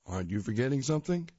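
quick, teasing dad question; dad's teasing voice. Acted. Dad reminding Tiger, quick teasing dad voice. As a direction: nudge him like a knowing father.

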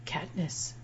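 softly murmured character line; lightly hushed, as if whispering; mock whisper. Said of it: "Peeta whispered".

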